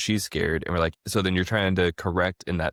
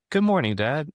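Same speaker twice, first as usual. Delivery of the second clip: put-on much higher toddler greeting; little daughter's voice; 9 semitones higher than usual. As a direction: pitch it up like a three-year-old waking.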